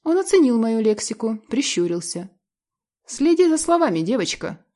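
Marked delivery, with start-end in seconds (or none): 3.1-4.6 a hint of menace, starts higher; threatening. A narrator's reading. Husband warning wife about her swearing, mildly threatening. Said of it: "проговорил муж с угрозой".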